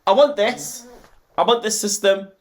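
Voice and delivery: high, eager wanting; breathless little gush of want; excited gushing. Real, not acted. Vlogger gushing at the Mario coins. Gushing over the Switch back.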